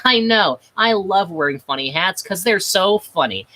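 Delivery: lightly voiced proud silly cat; smug cat. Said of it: "the cat in the goofy hat went".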